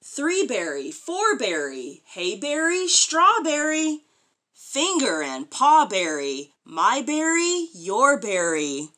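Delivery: sing-song rhyme, slowing at the end; reading to children. Acted. Mother reading a picture book rhyme aloud, sing-song. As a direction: read the rhyme to a small child.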